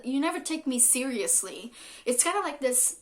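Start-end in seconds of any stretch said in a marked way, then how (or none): 0.0-1.7 lightly acted reproach; mock angry complaint. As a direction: act out a partner's grievance. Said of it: "when they get angry again".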